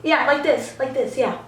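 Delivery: lightly imitated sassy correction; sassy comeback. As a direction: correct them with a touch of sass. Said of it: "he got all sassy".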